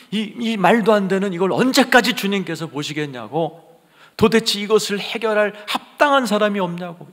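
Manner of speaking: high, loud cry to God; anguished John pleading. Acted. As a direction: protest to heaven in weeping indignation, acted. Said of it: "할아버지 요한이 울고 있는 거예요". (울분에 찬 요한의 절규)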